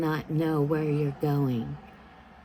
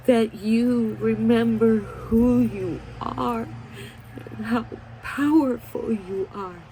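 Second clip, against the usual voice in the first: tearful; 3 semitones higher than usual. Real, not acted. Emotional plea to women.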